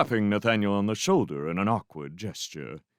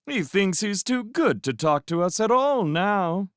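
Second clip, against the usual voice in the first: put-on higher, louder taunting young man; mocking; 12 semitones higher, 4 dB louder than usual. A narrator's reading. Young man mocking the boy to his companions, sneering. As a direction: sneer at the boy to your friends.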